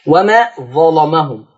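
"ظلمهم" slow, with a dark, thick l; heavy lam. Shown as a demonstration. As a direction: recite "ظلمهم" darkening the lam. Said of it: "زيها مغلظة".

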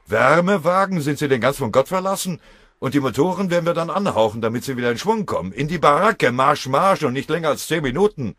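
very high, loud incredulous outburst; outraged shouting. A narrator's reading. Foreman refusing the fitter's request, outraged shouting. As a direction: bellow scornfully, ending in marching orders.

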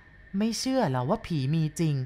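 slow, low-key ghostly tease; slow eerie taunt. Acted. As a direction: drag it out like a ghost toying with him. Ghost taunts the cart rider. (เย้าเยือกเย็นช้าๆ แบบผี)

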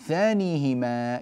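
slow, drawn-out verse reading; verse recitation. Shown as a demonstration. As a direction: recite it with lengthened vowels.

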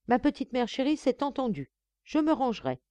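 high-pitched coaxing of a mother; mock-sweet promise. Son retelling his promise to his mother, mock-sweet.

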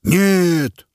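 men in the crowd yell it; crowd call. A narrator's reading. Male onlookers backing the killer, shouted no. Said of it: "поддержала убийцу мужская половина зевак".

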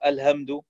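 الهمد with a light h replacing ḥ; haa as plain h. Shown as a demonstration. Teacher imitating non-Arabs' mistake, الهمد with plain h. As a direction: weaken the ḥ into h in الهمد. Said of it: "أو هاء عند غير العرب".

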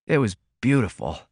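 a tired laundryman remembering his hospital rest, dreamily. A narrator's reading. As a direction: let "It was beautiful" float away like a happy memory. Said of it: "he repeated dreamily".

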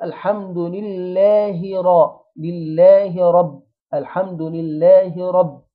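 slow recitation, لله ending in a distinct short "hi"; الحمد لله drawn out, clear "hi" before رب; clear kasra on ha. Shown as a demonstration. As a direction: carry "lillaahi" into an open رب. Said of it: "نكسر الهاء كويس جدًا".

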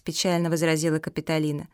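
ordinary delivery, nothing marked

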